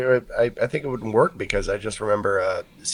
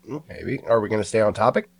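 ordinary talk, nothing marked

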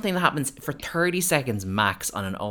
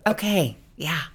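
mock awkward okay; 8 semitones higher than usual. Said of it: "And then she kinda goes".

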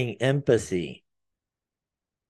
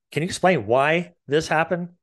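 lighter and higher, asking not accusing; gentle, curious tone; 4 semitones higher than usual. Shown as a demonstration. Parent asking a child gently, with no judgment. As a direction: ask it openly, without blame. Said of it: "Listen to the tone and how that comes out".

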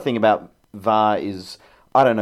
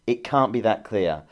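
impassioned; 4 semitones higher than usual. Real, not acted. Fellow pundit arguing against the VAR booth, impassioned. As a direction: argue it with rising passion. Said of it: "good, good passion".

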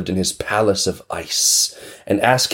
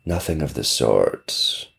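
stern witch; 7 semitones lower, slower than usual. Acted. Witch answering.

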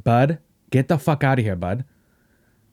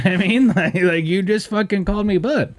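laughing disbelief; 8 semitones higher than usual. Real, not acted. Laughing at the coworker's reply.

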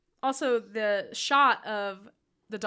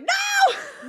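high yelp of horror, louder; mock shout; 8 dB louder than usual. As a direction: cry out at the screen. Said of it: "I was like".

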